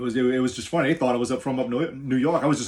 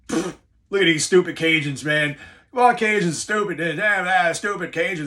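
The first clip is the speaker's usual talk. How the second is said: mocking New Yorkers; 7 semitones higher, 6 dB louder than usual. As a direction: sneer at the locals like a brash New Yorker. New York guys mock Cajuns.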